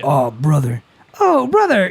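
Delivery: dramatic anime outcry. Shown as a demonstration. Demonstrating anime tones.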